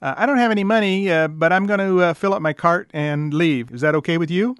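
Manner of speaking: loud, hesitant customer asking a favor; sheepish customer voice. Retold or imitated. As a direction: play a shopper begging awkwardly. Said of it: "going into the manager and saying".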